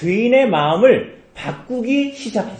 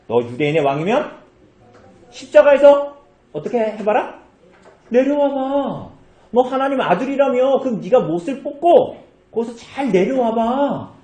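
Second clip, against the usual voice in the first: mocking taunt; 4 semitones higher than usual. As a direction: taunt him like a jeering soldier. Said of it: "이렇게 예수님을 조롱했어요".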